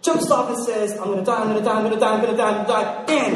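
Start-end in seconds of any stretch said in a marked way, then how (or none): 1.0-3.0 mock panic. Second guy falling, panicking. 3.0-3.3 loud impact word. Acted. Narrating the impact.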